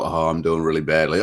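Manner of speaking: sinking disappointment; deflated. Retold or imitated. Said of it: "I felt like".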